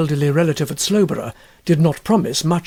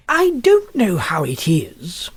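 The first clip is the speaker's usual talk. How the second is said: hushed confiding; slower than usual. A narrator's reading. Huddle confiding to friend.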